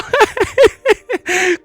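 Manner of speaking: high, loud cracking-up laugh; burst of laughter. Real, not acted. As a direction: lose it laughing mid-sentence. Cracks up mid-reading.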